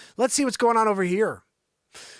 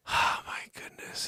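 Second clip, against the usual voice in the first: breathy whispered aside; 7 dB quieter than usual. Real, not acted. Host whispers in disbelief at the yacht. Sigh then whispered reaction.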